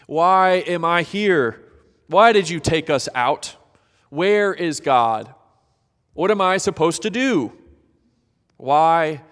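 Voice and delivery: loud, pleading questions to the sky; a crowd pleading with God; anguished questions. Acted. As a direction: fire off desperate questions. Voicing the people's questions.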